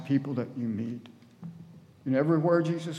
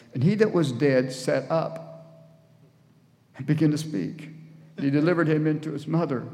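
scripture reading; 3 semitones higher, 4 dB louder than usual. A narrator's reading. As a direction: read it out with weight and long pauses. Reads scripture aloud to congregation.

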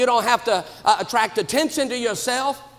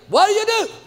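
higher and louder, stressing do; emphatic question; 9 semitones higher, 4 dB louder, faster than usual. Retold or imitated. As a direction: call the question out with energy. Repeated question to church members.

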